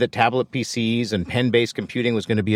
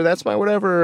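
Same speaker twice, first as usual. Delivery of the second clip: excited recognition; 8 semitones higher than usual. Retold or imitated.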